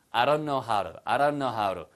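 "I don't know how to" as I-ron-no-how-ru; low model "I don't know how to" with tapped t; linked, flapped t. Shown as a demonstration. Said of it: "트 발음은 항상 이렇게 리을로 변합니다".

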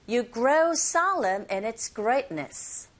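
slow model line, stretching "grow solemn" and "greatness"; content words stressed. Shown as a demonstration. Teacher leads repeat-after-me, slow with "grow solemn" and "greatness" stressed. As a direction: lean on "grow solemn", pass lightly over "in its". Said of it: "머물지 않고 빨리 지나가면서".

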